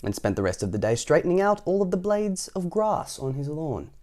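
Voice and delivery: lively, projected read-aloud; story narration. A narrator's reading. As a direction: read it out clearly to children. Reads story to children.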